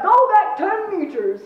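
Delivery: loud, high, drawn-out command; forceful military shout; barked order. A narrator's reading. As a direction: bark it like a commander. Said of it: "he barked".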